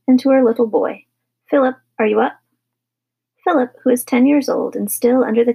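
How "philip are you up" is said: put-on higher, questioning call to a child; lightly raised mother's call; calling upstairs. A narrator's reading. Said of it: "called upstairs".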